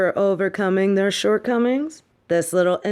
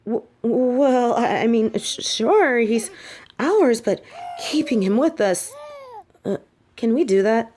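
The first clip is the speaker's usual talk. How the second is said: flustered stammer; 4 semitones higher than usual. Acted. Flustered about keeping the child.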